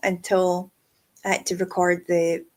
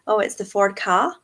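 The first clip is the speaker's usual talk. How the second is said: put-on posh accent. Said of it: "the word car in a posh accent".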